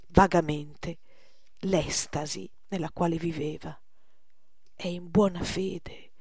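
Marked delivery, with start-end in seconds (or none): 4.7-6.1 slow whisper. Acted. Porbus murmurs to Poussin.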